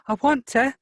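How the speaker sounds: high, loud tearful cry; sobbing. A narrator's reading. Girl sobs to Xavier that she wants to return, high wail. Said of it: "she sobbed".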